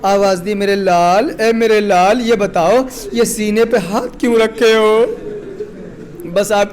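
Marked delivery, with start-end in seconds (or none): 0.5-5.1 grieving call. Acted. Father calls his dying son.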